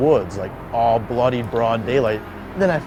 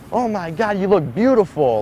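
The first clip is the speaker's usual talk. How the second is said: higher, excited nurse voice; gushing nurse; 6 semitones higher than usual. Retold or imitated. Nurse running up to the waking patient, excited and higher. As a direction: rush in overjoyed.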